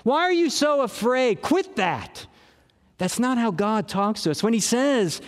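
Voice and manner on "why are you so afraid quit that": mock angry father. Pastor mimics an impatient father scolding a scared child, mild mock anger. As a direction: bark it like a short-tempered dad. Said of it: "an angry father yelling at us".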